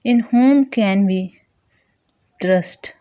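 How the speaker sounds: "whom" given the main stress; emphasis on whom. Shown as a demonstration. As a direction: lean on the word "whom". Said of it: "Whom is emphasized".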